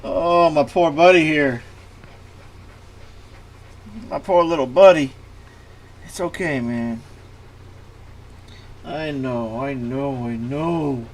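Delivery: tender pet talk; soothing a scared dog. Real, not acted. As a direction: comfort the trembling dog.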